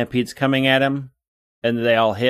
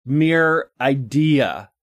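mock offended; 3 semitones lower, much slower than usual. Mock outrage about filler episodes.

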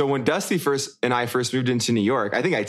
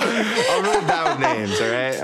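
laughing. Real, not acted. Embarrassed laugh about names.

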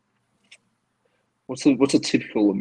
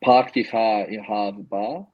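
put-on Boston accent; slower than usual. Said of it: "give us your best Boston or general American accent".

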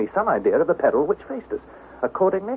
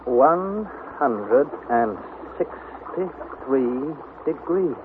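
slow reading; 4 dB quieter, much slower than usual. Acted. Reading thermometer slowly.

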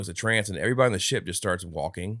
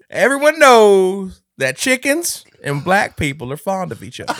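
mock announcer; 10 semitones higher, 8 dB louder, slower than usual. Mock stereotype line.

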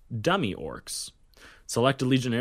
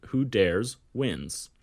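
Who dares wins, drawn out slowly; slow deliberate motto; much slower than usual. Acted.

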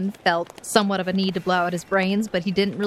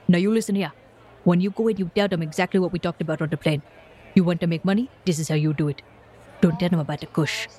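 put-on African accent; faster than usual. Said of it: "he's speaking with a heavy African accent".

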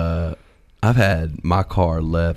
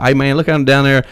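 thick country accent; 3 semitones higher than usual. Shown as a demonstration. Excited back home among country folk, thick country accent. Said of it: "I start talking like this right here".

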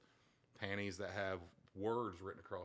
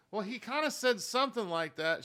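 quoting through laughter; 12 semitones higher, 8 dB louder than usual. Retold or imitated. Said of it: "She said".

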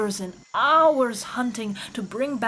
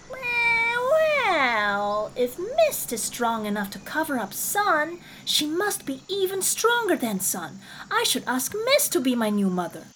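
high kitten voice, thinking it over; kitten's voice; 7 semitones higher than usual. Acted.

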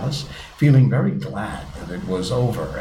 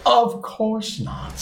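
slow Mock Turtle voice; 13 semitones higher, much slower than usual.

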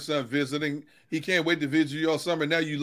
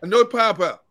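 put-on child's sassy reply; 6 semitones higher, 5 dB louder than usual. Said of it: "Who you talking to?".

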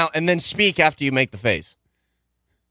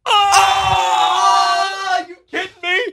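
amazed exclamation; 13 semitones higher, much slower than usual. Retold or imitated. Audience member reacts to rap, shouting in disbelief. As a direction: cry out in hyped-up astonishment. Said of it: "where you'd be like".

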